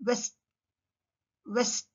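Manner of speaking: "వెస్ట్" as west, lips pushed forward; "వెస్ట్" with no teeth on the lip; W sound. Shown as a demonstration. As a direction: start "వెస్ట్" with a rounded W. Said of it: "mouth goes forward".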